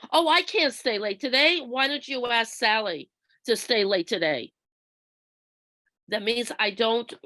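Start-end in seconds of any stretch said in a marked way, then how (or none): 0.1-4.5 mock hostile refusal. Shown as a demonstration. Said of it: "An aggressive communication sounds like it's demanding, abrasive, or hostile".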